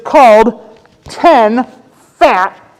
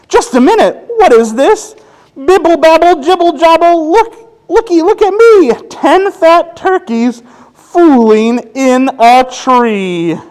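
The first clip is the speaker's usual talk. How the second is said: higher, playful turkey voice; excited turkey; 9 semitones higher than usual. Acted. Last turkey showing off to kids, lightly voiced. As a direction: squeal it like a proud turkey.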